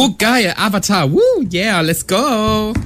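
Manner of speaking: whooping, high-pitched hype cheer; rowdy party animal. Acted. Cheering when Avatar is on.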